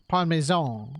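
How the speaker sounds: PARMESAN as "pahn-may-zone", mock Italian; Italian accent. Shown as a demonstration. Unsure speaker trying Parmesan in an Italian accent. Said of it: "like, in an Italian accent".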